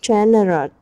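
Generous with GEN stressed; stress on first syllable. Shown as a demonstration. Teacher modelling stress for the class, first syllable stressed. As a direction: hit the first part of Generous. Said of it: "Ta nhấn phần một".

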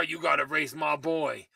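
underplay it quietly; lightly voiced movie hero; Paul Walker impression. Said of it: "That's my impression".

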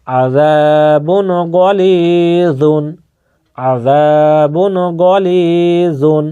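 আযাবুন গলিযুন read slowly, with the alif in আযাবুন held one count; slow recitation. Shown as a demonstration. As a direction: chant আযাবুন গলিযুন at a teaching pace. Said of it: "জাহির করে তাড়াতাড়ি পড়তে হবে".

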